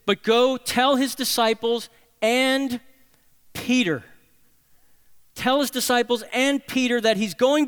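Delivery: high, loud proclamation, building; angel's joyful announcement. Retold or imitated. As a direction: proclaim it like good news shouted out. Voicing angel announcing resurrection.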